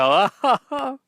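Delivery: mock sobbing plea as a bird call; crying mating call. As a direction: wail for love, pitched high. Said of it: "walk up to a woman and go".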